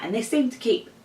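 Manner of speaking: talking through hiccups; hiccuping mid-sentence. Real, not acted. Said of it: "Sorry, I keep hiccuping".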